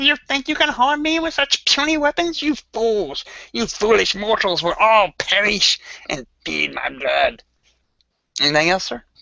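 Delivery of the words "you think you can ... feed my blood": very high, swooping, demonic cackling villain voice. Narrating a fight, the speaker voices a female foe taunting the group with a cackle. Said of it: "And she's cackled like".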